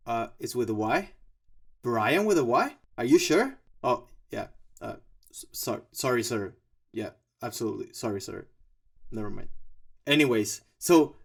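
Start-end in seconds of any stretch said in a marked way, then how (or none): 3.8-9.5 sheepish apology. Pretend. Cowed apology to imagined boss.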